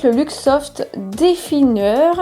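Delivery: slow English product name in a French accent; real French accent on English words. Real, not acted. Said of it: "désolée pour mon accent anglais".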